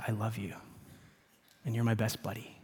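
soft and close, almost a whisper; dad softly telling his son he loves him; hushed i love you. Retold or imitated. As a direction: confide it gently to a little boy. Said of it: "I whisper very quietly".

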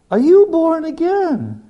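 high, drawn-out disbelief; slow incredulous high voice. Retold or imitated. Pilot questions his guest, slow and high in disbelief. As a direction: stretch each word in stunned disbelief.

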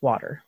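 "water" said the Philly way, like WOODER; Philly-area pronunciation. Shown as a demonstration. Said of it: "certain key words that tell me exactly if they're from".

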